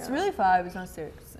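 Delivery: whiny complaining voice, words dragged out. Pretend. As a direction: complain about the clock like it's unfair. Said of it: "that's my complaining voice".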